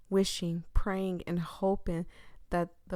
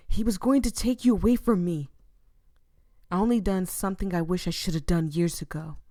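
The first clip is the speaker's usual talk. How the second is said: louder, fast defensive snap; defiant outburst; 6 dB louder, faster than usual. Acted. Killer boyfriend defending his crime, louder. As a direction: justify it with rising heat. Soul justifies killing.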